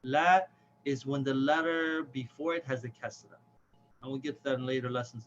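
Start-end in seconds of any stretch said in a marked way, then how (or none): 0.0-0.4 "la" with a thin open a, as in cat; louder demo of a light "la"; light long vowel. Shown as a demonstration. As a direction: keep "la" light, not rounded. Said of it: "pronounced with a light long vowel".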